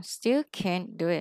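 teacher repeats "can't" with the T cut off; stopped T. Shown as a demonstration. Teacher to student: "can't" with the T stopped short. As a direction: say "can't" with the T held back. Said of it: "ngay chữ T nó ngừng lại một chút".

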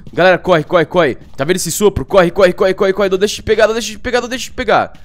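loud, high panicked yelling; being chased. Real, not acted. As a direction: run for your life, shouting. Fleeing the ghost. (gritando em pânico, fugindo do fantasma)

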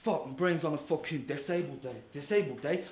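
low, soft stumbling mutter; feigned blanking, quietly cursing yourself; faked choke. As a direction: act like you've forgotten your lines. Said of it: "That ain't a real choke".

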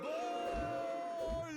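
loud goal scream; screaming football commentator. Acted. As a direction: shout GOL at full voice. Goal call, much louder.

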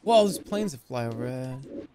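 slow, hammed-up mock wonder; pretend enthusiasm. Gamer mocking his own delight at planes, fake enthusiasm. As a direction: fake being impressed, drawn out. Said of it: "Like my pretend enthusiasm".

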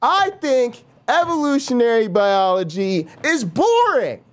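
high, mocking rant voice. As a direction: sneer at biologists in a lifted voice. Mock rant at biologists.

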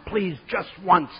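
hammed-up begging, rising on the repeat; mock pleading. Sophia Loren begging Brian at his door, mock pleading.

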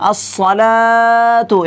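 slow আস-সালাতু with লা held one alif; one alif length. Shown as a demonstration. Teacher repeats আস-সালাতু for the students. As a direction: draw out আস-সালাতু slowly and evenly. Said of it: "এক আলিফ শুধুমাত্র টেনে পড়তে হবে".

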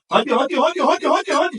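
rising, high cheering "hadi". Real, not acted. Cheering child in race.

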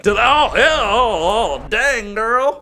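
high, loud, hammed-up grossed-out squeal; mock disgusted girl. Mimicking the girl's disgusted reaction, mock high squeal. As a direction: imitate her face turning in disgust. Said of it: "She goes like".

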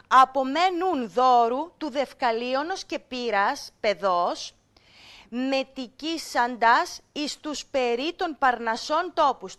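put-on measured, slightly slow recitation of the old Greek; teacher reciting a passage for students; reading ancient text. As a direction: read it out like a classroom text. Reads ancient text to class.

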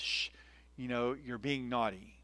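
soft scolding hush; mild hush. Retold or imitated. Mom hushing little Chrissy at the meeting, soft scold. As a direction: gently shush a noisy child. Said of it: "my mom turns to her and says".

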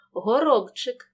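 б in «Горобчик» kept voiced before ч; clear voiced consonant. Shown as a demonstration. Teacher models the word for pupils, clearly voiced. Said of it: "вимовляємо чітко, не оглушуємо".

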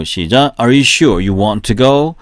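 normal talking voice

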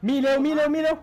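urgent shout. Real, not acted. Urging teammates during heist.

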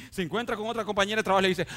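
loud, rising fervent preaching; preaching at full force. Acted. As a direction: preach it hard to the congregation. (predicación a todo pulmón, con fervor)

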